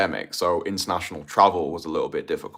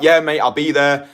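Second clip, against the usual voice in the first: Jeff; 6 semitones higher, 5 dB louder than usual. Acted. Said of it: "And if Jeff's like".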